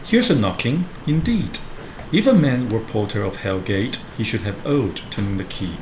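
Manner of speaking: lightly dramatised reading of the porter; porter's speech read aloud. Acted. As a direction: read the porter's lines with a bit of theatre. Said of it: "so here the porter says".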